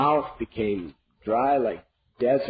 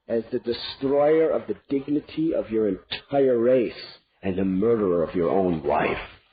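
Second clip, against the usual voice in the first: much lower, cold threatening queen; wrathful; 4 semitones lower than usual. Acted. Queen to king, wrathful cold threat. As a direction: threaten him coldly. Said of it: "with great wrath in her eyes".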